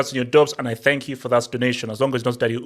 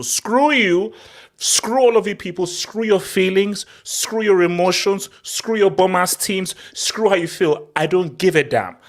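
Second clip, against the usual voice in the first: defiant rant; 5 semitones higher than usual. Real, not acted. Rant "screw you" list.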